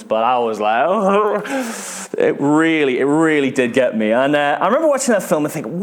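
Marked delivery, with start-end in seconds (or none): 0.9-2.1 mock sob. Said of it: "I don't cry much in films".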